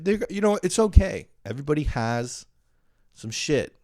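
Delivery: high-pitched placating voice; mock reassurance. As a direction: reassure them in a high, squeaky singsong. Hastily reassuring the family he criticised.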